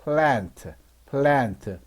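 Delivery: demonstrated 애 sound in plant; short A sound. Shown as a demonstration. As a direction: plant with an open 애 vowel, as in cat. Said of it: "단모음 A니까 애 소리가 나죠".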